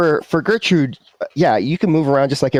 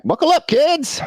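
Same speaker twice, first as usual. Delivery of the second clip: high-pitched call back to passengers. Acted. Goober heads to the front and calls back to kids, high-pitched calling. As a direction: call it out cheerfully high, like a driver. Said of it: "and then calls back".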